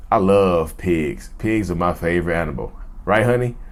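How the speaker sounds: slow, pointed taunt aimed straight at the partner; mild mock sweetness, very slow; calm taunting. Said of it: "I'm looking directly at you when I say it".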